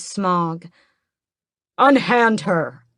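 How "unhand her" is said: slow, loud command; commanding shout. Acted. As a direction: bark the order over a crowd. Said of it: "Raoul's voice is clear from the rest".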